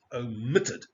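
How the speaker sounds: OMITTED as o-MIT-ted; second-syllable stress. Shown as a demonstration. Teacher repeats the example, OMITTED stressed on MIT. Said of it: "The second syllable".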